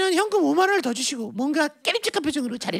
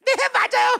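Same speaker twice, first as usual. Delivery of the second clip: high-pitched, sunny, laughing reply; cheerfully guileless sister; 7 semitones higher, 3 dB louder than usual. Acted. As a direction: take the insult with innocent cheer. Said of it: "너무 해맑았죠".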